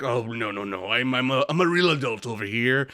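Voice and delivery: a hint of snooty British; dismissive mock British, lightly; teen pretending to be a refined Brit; lazy British. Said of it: "lazy man British".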